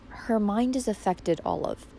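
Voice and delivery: soft, slow, grave pronouncement; solemn. Acted. Aunt warning Olive about Valancy, solemn and hushed. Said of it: "said Aunt Wellington solemnly".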